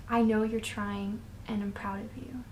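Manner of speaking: soft unvoiced whisper of a loving voice; tender whisper. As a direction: breathe it gently, like reassurance. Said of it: "the one that sounds like".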